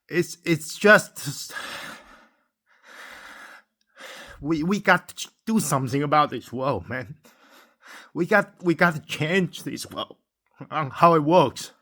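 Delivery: pushing the words out through real tears; breaking down. Real, not acted. Vlogger pleading that we must change this world, tearful breaking voice. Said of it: "I shouldn't break down like this".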